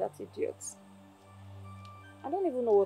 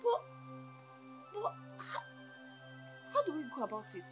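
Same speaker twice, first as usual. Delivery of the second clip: hushed, unsure question; hesitant; 14 dB quieter than usual. Acted. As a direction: ask it very softly, wary. Hesitant question about the crime.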